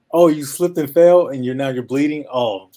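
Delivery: high, loud mock concern climbing to a squeak; exaggerated joking disbelief, pitch leaping upward; playful sarcasm. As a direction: tease a patient by hamming up how tiny the injury is. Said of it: "a little bit of sarcasm".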